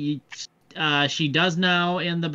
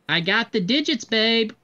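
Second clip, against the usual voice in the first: higher-pitched in-character boast; agent reporting; 6 semitones higher than usual. Acted. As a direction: lightly play an agent announcing a win, pitched up. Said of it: "And your agent reports".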